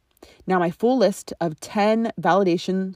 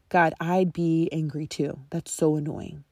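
sympathetic reply. Shown as a demonstration. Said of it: "She says".

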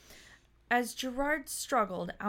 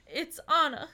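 cracking tearful heartbreak; 4 semitones higher, 4 dB louder, slower than usual. Acted. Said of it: "he bawled".

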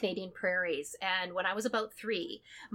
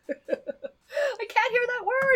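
high-pitched laughing objection; amused high wail of protest; playful protest; 12 semitones higher, 3 dB louder, slower than usual. Acted. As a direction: squeal in mock horror, drawn out. Playful horror at mocked word.

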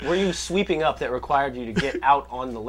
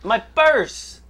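shrill victim cry; 10 semitones higher, 6 dB louder than usual. Pretend. Acting robbed victim.

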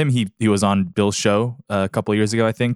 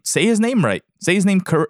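higher, emphatic "Say his name right"; exasperated demand; 6 semitones higher than usual. Real, not acted. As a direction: scold the announcers with rising frustration. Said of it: "frustrated demand to announcers".

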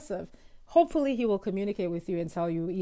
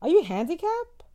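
high, louder incredulous husband; mock husband; 9 semitones higher, 5 dB louder than usual. Wife imitating husband's disbelief, high and loud. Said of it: "my husband looked at me like".

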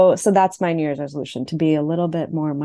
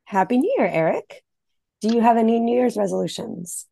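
smoky noir detective voice; Natasha Lyonne voice; 5 semitones higher than usual. Acted. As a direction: talk like a chain-smoking noir dame. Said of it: "that your voice took".

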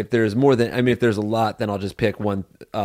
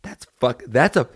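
usual speaking voice

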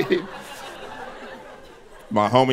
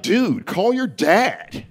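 put-on higher, drawn-out white-girl delivery; confident white girl; 5 semitones higher, much slower than usual. Homie's girlfriend interrupting him, confident white-girl voice. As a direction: stretch it out with total assurance. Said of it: "she said it with that white girl confidence".

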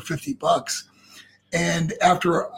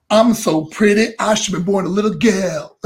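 flamboyant Johnny B. Bad; 3 dB louder than usual. Shown as a demonstration. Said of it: "now do it like this".

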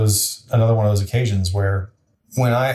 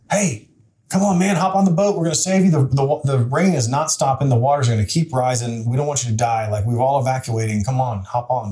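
boat rescuer pleading; 3 semitones higher than usual. Retold or imitated. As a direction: call him onto the boat, pitched up. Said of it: "And the boat says".

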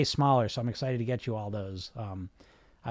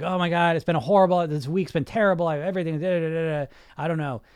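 higher and louder, imitating a panicked client; freaking-out client; 3 semitones higher, 5 dB louder than usual. Coach imitating a stressed client on a group call, flustered. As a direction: play the frazzled caller pouring it all out. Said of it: "they're kind of freaking out".

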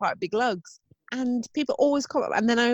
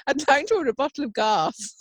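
telephone voice; 4 semitones higher than usual. Retold or imitated. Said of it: "a bit of a telephone voice".

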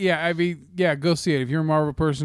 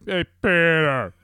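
slow, drawn-out higher call; kids' echoed call; 4 semitones higher, 4 dB louder, slower than usual. Retold or imitated. Kids echoing dad from the bedroom, drawn-out call. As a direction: stretch it out like an answering holler. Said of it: "out of the bedroom, I just hear".

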